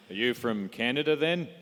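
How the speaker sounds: put-on lightly Australian-accented question; wrong accent, Australian. Quoting an American stranger in the elevator, mistakenly Australian-accented. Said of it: "that was the wrong accent".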